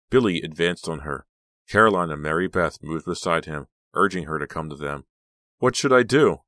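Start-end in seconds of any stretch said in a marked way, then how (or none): 5.6-6.4 high, loud, panicked question; anguished self-questioning. A narrator's reading. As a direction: torn and desperate. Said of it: "Danielle asked herself".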